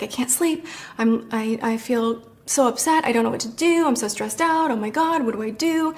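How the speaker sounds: mildly distressed retelling; imitated upset. Retelling James's late-night visit, mildly upset. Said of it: "he was super upset".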